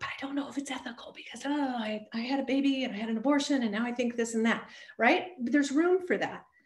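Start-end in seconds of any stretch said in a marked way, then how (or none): 0.0-4.7 whisper, quieter. Quoting a vociferously pro-choice person who surprised them, retelling a whisper. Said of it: "surprised me by whispering like".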